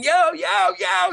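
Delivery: high, loud yell after the bus; loud calling yo; screaming. Retold or imitated. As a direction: shout it out chasing a bus. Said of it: "And I'm screaming".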